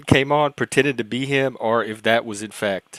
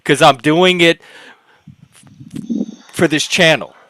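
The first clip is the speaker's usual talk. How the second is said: louder, higher, insistent self-defence; firm rebuke; 3 semitones higher, 4 dB louder than usual. Real, not acted. Host tells complainers about gatekeeping on this channel, firm rebuke. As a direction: lay down the law to the complainers.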